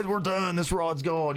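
a lightly voiced fed-up father; mock exasperated dad. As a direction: play the dad throwing up his hands. Dad retells giving up on rod.

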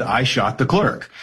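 "I shot the clerk." read flatly as a plain statement; deadpan statement. Retold or imitated. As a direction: say "I shot the clerk." like a sheriff reading the transcript, dry and matter-of-fact. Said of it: "the sheriff deadpan says".

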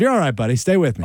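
level, reassuring delivery; calmly steady a frightened man; easy, unforced reassurance. Shown as a demonstration. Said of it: "Did you say it in a calm voice?".

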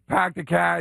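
mock Boston accent; fake Boston accent. Host teasing a fake local, mock Boston accent. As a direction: put on Boston vowels. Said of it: "When were you from Boston?".

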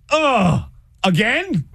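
high, whiny objection; mock disgusted complaint. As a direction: groan it as an exasperated, picky partner. Woman rejects food suggestions.

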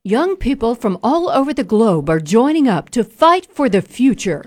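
news anchor voice. Acted. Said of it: "that was my news anchor voice".

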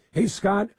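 ordinary talk, nothing marked

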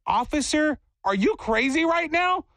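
high-pitched mock-outraged question; incredulous retort. Cyclist talks back to self-appointed officer, incredulous.

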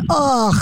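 mock groan of disgust. Host reacting to horrible Boston accents, mock disgusted groan. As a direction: let out a pained "ugh".

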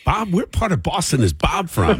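laughing, mock Boston accent. Host acting out the studio's reaction to Bob, mock Boston accent. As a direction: tease with a light Boston accent. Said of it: "looked over like".

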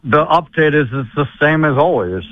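usual speaking voice

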